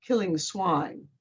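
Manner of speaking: slow, curt and blunt; curt witch reply. Acted. Witch answers the other witch, curt and slow. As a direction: drop it coldly, in few words. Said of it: "One responds curtly".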